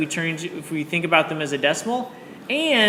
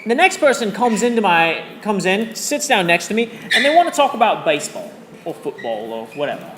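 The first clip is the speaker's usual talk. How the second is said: amateurish mock British accent; terrible British accent. Shown as a demonstration. Teacher telling of the baseball talker on the train, bad British accent. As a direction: tell it in a wobbly, badly faked British accent. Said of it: "my terrible British accent".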